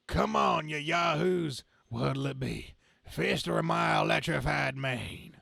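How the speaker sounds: mock tough-guy taunt; taunting brawler. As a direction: dare the mob to come at him. Character taunting mob.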